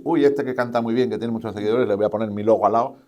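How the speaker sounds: mock keen opportunist, quickening at the end; marca oportunista imitada. (imitando con entusiasmo fingido a una marca oportunista)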